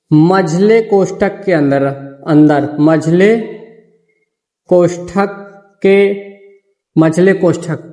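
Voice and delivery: slow, word by word dictation with long pauses; teacher dictating notes slowly. Shown as a demonstration. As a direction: dictate each word so they can write it down. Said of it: "तीसरा point लिखो".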